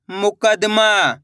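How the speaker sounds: slow, drawn-out blending of the word; slow clear reading. Shown as a demonstration. Teacher to pupils, blending the word slowly. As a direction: stretch each syllable for the pupils. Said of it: "एक एक अक्षर का उच्चारण सही से करना".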